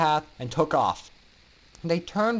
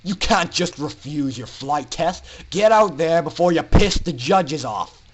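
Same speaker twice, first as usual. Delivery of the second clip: scolding; 5 dB louder than usual. Acted. Instructor scolds refusing student.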